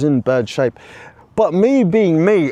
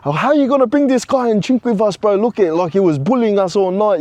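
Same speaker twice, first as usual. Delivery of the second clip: whinging; 5 semitones higher than usual. Retold or imitated. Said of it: "I was whinging to my brother".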